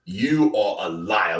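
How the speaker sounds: slow, evenly voiced accusation; lightly voiced Don Charles, measured and calm; Don Charles impression. Streamer mimicking Don Charles calling a boxer a liar, slow. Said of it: "Like Don Charles".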